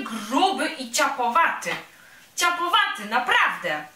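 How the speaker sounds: a vain tiny bee showing off and teasing; a vain little bee mocking the big clumsy bear, high and bright; boastful little bee.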